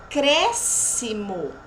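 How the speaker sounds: ACRÉSCIMO slow, split with CRÉS held; syllable by syllable. Shown as a demonstration. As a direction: pause between syllables of ACRÉSCIMO. Teacher sounds out example word. (ACRÉSCIMO devagar, sílaba por sílaba)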